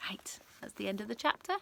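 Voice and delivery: soft breathy whisper to close the chapter; whispered sign-off. Real, not acted. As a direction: lean in and whisper the ending.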